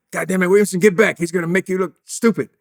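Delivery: high mock yell of an angry coach; retold coach yelling. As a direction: bark it like a furious coach on the field. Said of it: "And Red Hickey's yelling".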